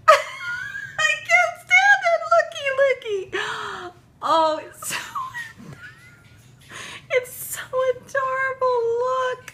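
very high squealed cry-laugh; overwhelmed by cuteness, wailing through laughter; happy crying. Real, not acted. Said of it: "this is gonna be just a crying video".

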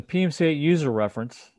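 "user" picked out with light emphasis; stress on user. Real, not acted. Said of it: "the emphasis is on user".

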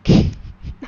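sudden loud burst of laughter; short explosive laugh. Real, not acted. Laughs after crashing the car.

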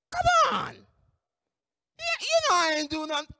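acted squealed disbelief, then quick reassurance; hyped-up supervisor. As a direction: brush it off in a hyped-up boss's high voice. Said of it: "this hyped up person".

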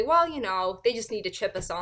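mock agreement, heavy with irony; sarcastic. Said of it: "I said sarcastically".

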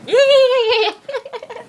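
high, loud llama squeal; dying llama noise. Shown as a demonstration. Friend answering in her story, squealed animal noise. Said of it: "I can make a dying llama noise".

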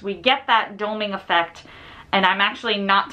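muffled behind fabric; speaking into face covering; through a cloth mask. Real, not acted. Seen 2: Green cloth mask covers her mouth and nose throughout; unmasked in references.

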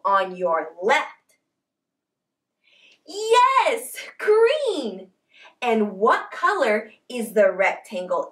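bright singsong preschool teacher; reading to a toddler. Acted. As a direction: coax the little ones along. Teacher quizzing small children.

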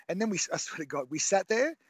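usual speaking voice

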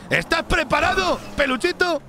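high, sing-song mock sweetness; teasing. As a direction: tease him like a pet. Teasing his partner by pet name.

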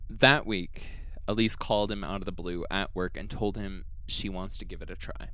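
calm, even storytelling read; podcast storyteller reading the case; story narration. A narrator's reading. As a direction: narrate the eerie account steadily.

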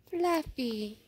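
loud call. Real, not acted. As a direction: call the name after it. Calling after the leaving pet.

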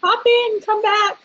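high, drawn-out sing-song call to join; calling out invite. Real, not acted. Host sings out to waiting guests, come join us, high and drawn out. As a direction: sing it out to welcome people in.

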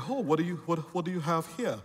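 a hint of a snobbish British accent; snooty Brit. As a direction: put on a lightly snooty British voice. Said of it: "this snooty Brit".

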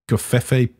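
"Covfefe" drawn out slowly as kuh-FEH-fay; joke mispronunciation. Shown as a demonstration. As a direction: offer "Covfefe" slowly as a silly third pronunciation. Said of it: "however the fuck you want to pronounce it".

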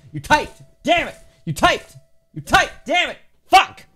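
very high, loud squawked cursing; frustrated outburst. Real, not acted. Player cursing someone who typed anyway, high frustrated yelling. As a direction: escalate into a high-pitched yell.

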